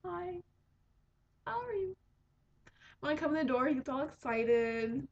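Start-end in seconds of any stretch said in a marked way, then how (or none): 0.0-1.9 high, sweet little greeting; a lightly voiced tiny fish saying hello; cute fish voice. Owner voicing her friendly fish, light high greeting. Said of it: "he'll just sit in the corner of the tank and be like".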